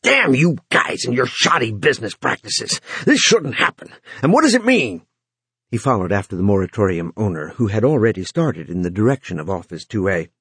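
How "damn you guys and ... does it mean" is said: breathless and upset; panting. Acted. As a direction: push it out between breaths. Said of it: "Runciter panted".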